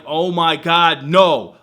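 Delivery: slow, loud oh my God, no; dismayed cry. Retold or imitated. Vlogger reliving sudden tooth pain, loud slow dismay. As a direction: groan at the toothache news. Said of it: "And I'm like".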